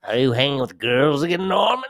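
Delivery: lightly voiced scolding mother, pitch shooting up high on the name; a hint of a nagging mother calling her son out; mock scolding mother. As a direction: tease him like a nagging mother. Voicing Norman's mother scolding.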